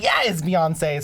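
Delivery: drawn-out, thrilled "yeah"; excited fan. Retold or imitated. Concertgoer reacting to a singer coming on, excited. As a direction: stretch it out like a delighted fan.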